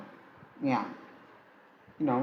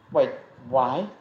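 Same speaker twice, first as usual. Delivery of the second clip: husky. Acted. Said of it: "Issei asked in a husky voice".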